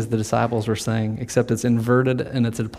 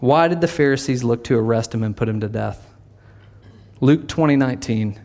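ordinary talk

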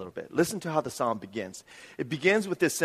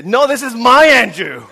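loud, high mock protest; Miran's possessive outburst; 10 semitones higher, 16 dB louder than usual. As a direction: jump in and claim him, shouting "my". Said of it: "Miran will jump in and she'll say".

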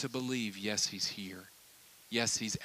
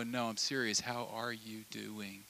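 softer, slow, serious question; earnest quiet ask; 3 semitones lower, 7 dB quieter than usual. Retold or imitated. Friend across the coffee table, quiet and earnest. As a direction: lean in and really mean it. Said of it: "they go".

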